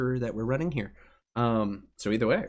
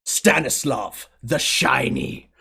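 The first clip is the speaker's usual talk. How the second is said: arena announcer; 3 dB louder than usual. Acted. Announcer introducing gladiators.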